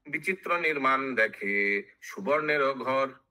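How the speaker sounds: measured chant with stretched syllables; sing-song epic verse; verse recitation. Acted. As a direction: intone the line like scripture. Verse chanted before its explanation.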